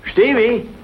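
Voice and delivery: high, loud call across the yard; old man hollering for Stevie. Acted. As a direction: shout for the boy to come. Calling for a boy outside.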